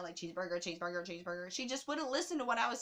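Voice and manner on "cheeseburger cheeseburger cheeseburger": lightly voiced, lower and softer sketch quote; a hint of the diner guy from the SNL sketch; SNL cheeseburger sketch. Quoting the SNL sketch about a cashier, lightly voiced. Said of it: "like that sketch on S N L".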